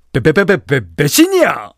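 high, loud cry of betrayal; mock outrage. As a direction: play up a comic sense of betrayal. DJ jokes about being betrayed.

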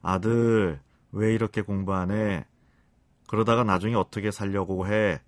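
acted tender parental reproach; soft, kindly nagging. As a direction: nag your son sweetly, without raising your voice. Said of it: "부드럽고 상냥한 말투로".

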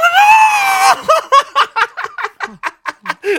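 very high rising squeal with laughter. Acted. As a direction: push the squeal up as high as it goes. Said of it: "잘 안 올라가네".

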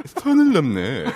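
slushy sh for s, husky; Lee Sun-kyun. Retold or imitated. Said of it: "시옷 발음이 잘 안 되시잖아요".

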